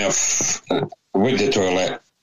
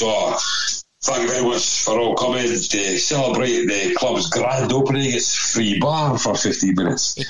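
raised-pitch club announcement, retold; tannoy announcer; 4 semitones higher than usual. Club tannoy welcomes guests to the grand opening, announcer voice. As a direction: imitate a voice over the tannoy. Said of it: "a voice came over the tannoy".

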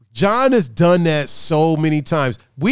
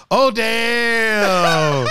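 laughing oh damn; 4 semitones higher than usual. Retold or imitated. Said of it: "That's what John does".

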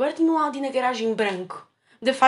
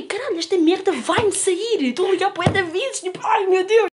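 mock excitement; 5 semitones higher than usual. Girl retelling her hopes of winning a car, excited. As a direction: relive the thrill of winning. Retold inner panic.

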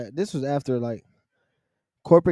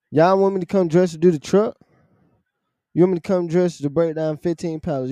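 incredulous rant; 3 semitones higher than usual. Retold or imitated. Mock outrage at dress code.

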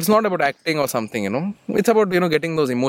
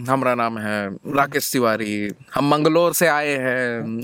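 put-on Bihari accent; 5 semitones lower than usual. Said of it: "that's why it's just a slang".

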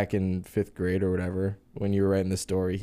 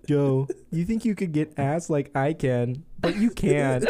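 weird voice impression; 3 semitones higher than usual. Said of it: "Damn you, weird voice".

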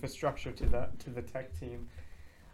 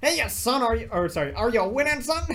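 mock dad voice; 9 semitones higher, 5 dB louder than usual. Meme dad voice.

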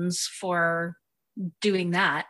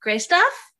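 high, laughing "Gray stuff?" as a cheerful question; laughing offer; 9 semitones higher, 4 dB louder than usual. Retold or imitated. Host imagines offering scared Belle food, laughing. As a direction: offer it brightly through a laugh. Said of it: "And I'd be like".

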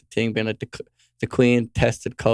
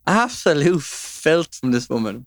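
mock outrage; 3 semitones higher, slower than usual. Repeating catchphrase, drawn out.

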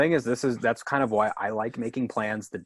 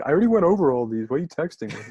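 higher, quicker mock irritation; retold annoyance; 4 semitones higher, 4 dB louder, faster than usual. Friend irritated by a list of game texts, mock annoyed. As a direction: imitate a friend getting testy over texts. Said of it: "he got all mad at me".

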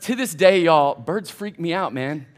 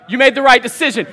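raised, loud declaration; punched-up, insistent repeat; emphatic affirmation; 3 semitones higher, 5 dB louder than usual. Real, not acted. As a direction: drive it home to the crowd, loudly.

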